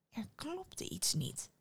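slow, whispery and suspicious; conspiratorial near-whisper; hushed suspicion. A narrator's reading. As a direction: draw it out very softly, as if smelling a mystery. Innkeeper grows suspicious of donkey.

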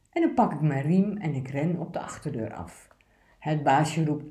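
steady, obedient picture-book reading; poem read aloud. Acted. Presenter reads the good dog poem aloud, earnest reading.

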